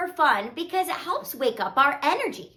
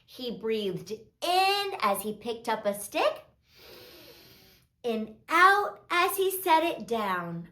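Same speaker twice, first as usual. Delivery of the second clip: put-on gentle, measured read-aloud to little kids; children's story narration; 2 semitones lower, 4 dB quieter than usual. A narrator's reading. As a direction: read a calming story, softly and unhurried.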